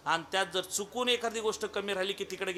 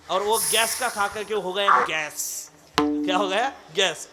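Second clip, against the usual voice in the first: mock Hindi; 5 dB louder than usual. Mock Hindi-speaking listener asking.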